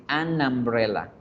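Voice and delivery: an umbrella run together as "anambrela"; fluid linking. Shown as a demonstration. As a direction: link the N of an into umbrella. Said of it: "para que exista esa fluidez".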